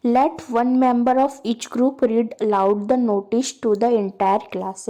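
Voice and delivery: slow, deliberate read-aloud of a task; slow textbook reading. Acted. Teacher reading the textbook task to students, slow and deliberate. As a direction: read each word out slowly for the class.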